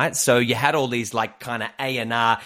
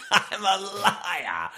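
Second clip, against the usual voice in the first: very slow, higher mock confession; slow drawn-out; 8 semitones higher, much slower than usual. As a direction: stretch it out slowly. Repeating the thought slowly.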